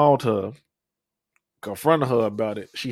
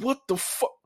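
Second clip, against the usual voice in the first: high, stunned disbelief; shocked; 10 semitones higher, 6 dB quieter than usual. Retold or imitated. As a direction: blurt it out in sudden shock. Shocked at seeing her video.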